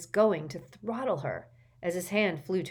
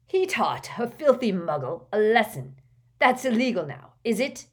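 higher, louder sarcastic retort; indignant challenge; 4 semitones higher, 6 dB louder than usual. A narrator's reading. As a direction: challenge him with raised voice. Father sarcastically challenges the official.

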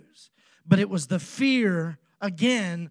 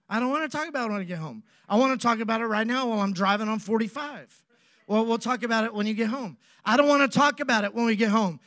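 irritated retort; 2 semitones higher, faster than usual. Retold or imitated. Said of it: "Now I'm getting upset".

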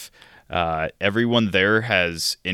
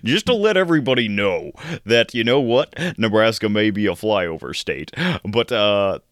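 silly put-on voice; 3 semitones higher than usual. Host asks co-host why he's using this voice. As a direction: ham up an odd character voice. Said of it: "Why this voice?".

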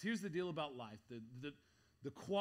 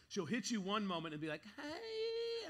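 put-on sassy toddler; 6 semitones higher than usual.

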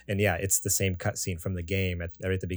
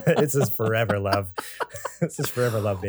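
laughing; 2 semitones higher than usual. Pretend. Playful mock passion, laughing.

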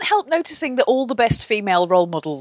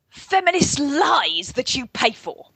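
rigid-shouldered resentment; 5 semitones higher than usual. Retold or imitated. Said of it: "I have to sit up straight for this one, 'cause it demands, you know, rigid-shouldered resentment".

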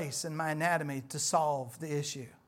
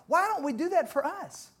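usual speaking voice

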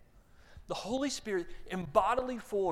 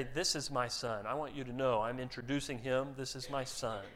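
announcing to crowd; 4 semitones lower, 3 dB quieter than usual. Shown as a demonstration. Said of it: "If you're talking to the crowd, you say".

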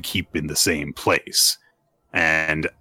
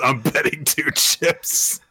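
high, slow, drawn-out showy announcement; hammed-up bet, pitched high and stretched out; mock extra flourish; 9 semitones higher, slower than usual. Player betting chips on a bullet, mock extra flourish. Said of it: "in a very extra fashion".

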